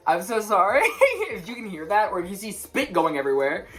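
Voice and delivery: apologizing through a laugh; laughing apology. Real, not acted. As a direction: giggle while saying sorry.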